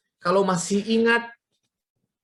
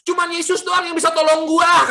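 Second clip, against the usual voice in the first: loud, high-pitched mock indignation; retold indignant retort; 9 semitones higher, 5 dB louder than usual. Imitating mother grabbing her son, indignant. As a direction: snap back like an offended mother.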